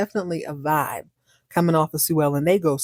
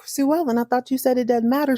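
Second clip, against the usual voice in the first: shocked; 6 semitones higher than usual. Acted. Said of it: "He's shocked".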